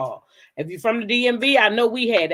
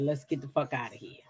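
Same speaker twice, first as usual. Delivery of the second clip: hushed urgent quote; 6 semitones lower, 11 dB quieter than usual. Retold or imitated. Urging cousin to flee store.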